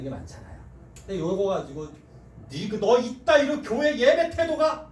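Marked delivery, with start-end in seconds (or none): 2.5-4.9 loud, higher and slow reprimand; slow mock-angry dressing-down; harsh scolding. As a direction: scold a girl for bad church manners. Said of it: "뭐, 이러면은".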